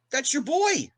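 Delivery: high, far-off goading voice; Richard egging him on. Retold or imitated. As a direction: push him on stage in a high mocking voice. Richard urges him onto stage.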